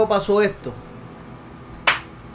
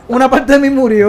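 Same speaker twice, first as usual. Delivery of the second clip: laughing; 3 semitones higher, 4 dB louder than usual. Real, not acted. Laughing confession.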